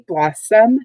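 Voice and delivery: "blossom" with BLOSS stressed; pronunciation-key "blossom", first syllable stressed. Shown as a demonstration. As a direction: say "blossom" in two clear syllables, leaning on the first. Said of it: "Bloss is the stress syllable".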